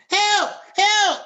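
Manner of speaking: high, loud mock cry for help; retold scream for help. Attacked woman screaming to the street late at night, imitated scream. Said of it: "so she's screaming out".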